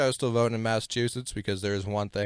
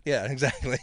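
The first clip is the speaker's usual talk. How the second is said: stoner voice. Acted. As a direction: talk like a relaxed stoner. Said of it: "Nice little stoner voice".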